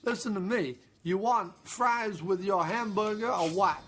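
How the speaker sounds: attempted Southern slipping into New York; a put-on New York accent. Shown as a demonstration. Trying Southern at a drive-through, lands in New York accent. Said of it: "New York accent".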